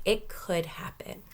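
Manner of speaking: hushed aside to the class; whisper. Acted. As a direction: whisper it like a secret.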